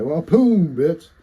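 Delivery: loud high victory taunt; triumphant taunt. Retold or imitated. Streamer gloating after smashing the spider, loud taunt. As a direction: gloat over the squashed spider. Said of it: "I said".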